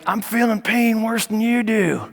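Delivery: put-on hushed confiding old man; mock Biden leaning in to whisper; Joe Biden impression. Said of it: "then Joe Biden is like".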